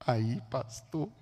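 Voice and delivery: soft, low, drawn-out aside; hushed, hesitant address; confidential murmur. Retold or imitated. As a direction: imitate someone leaning in close, very slow. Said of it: "chegou pertinho de mim e falou assim".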